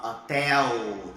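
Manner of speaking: HOTEL with open é and final l turned to u; Portuguese pronunciation. Shown as a demonstration. Teacher showing the difference, Portuguese pronunciation. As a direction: say HOTEL loud as o-TÉ-u. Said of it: "Olha a diferença pro português".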